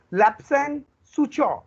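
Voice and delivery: Lapsang Souchong in two slow, separate parts; pronunciation model. Shown as a demonstration. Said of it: "What is the pronunciation". ("Lapsang Souchong" का धीमा, साफ़ उच्चारण)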